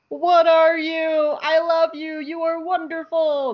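high, slow and amazed, in a put-on voice; awed first reaction. Fan recalls first seeing the Bendu, awestruck and high. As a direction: gush like a starstruck fan. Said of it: "and I was like".

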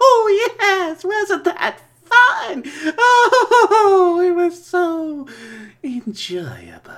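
high, loud gleeful ghoul; Crypt Keeper voice. Acted. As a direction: relish the evil fun. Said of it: "Crypt Keeper here".

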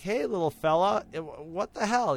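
loud, eager and carefree; gung-ho excitement. Retold or imitated. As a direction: greet the creature like a pet. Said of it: "sort of gung-ho guy".

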